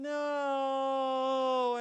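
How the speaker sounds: high, loud, drawn-out wailing no; toddler's mock tragic no; end of the world no. Shown as a demonstration. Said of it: "to add that extra musical inflection".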